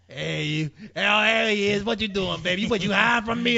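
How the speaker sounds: sugar lady voice. Retold or imitated. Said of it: "she's like".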